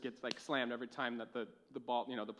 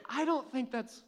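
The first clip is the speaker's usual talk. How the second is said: higher, breaking into laughter midline; laughing coach quote; 9 semitones higher, 7 dB louder than usual. Retold or imitated. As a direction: coach trying not to laugh. Quoting coach, stifling laughter.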